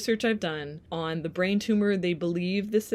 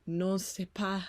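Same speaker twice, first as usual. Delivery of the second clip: whisper; 4 dB quieter, slower than usual. Pretend. Joking whisper in French.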